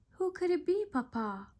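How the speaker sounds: high small cub voice, wondering; Baby Bear wondering. A narrator's reading. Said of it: "wondered Baby Bear".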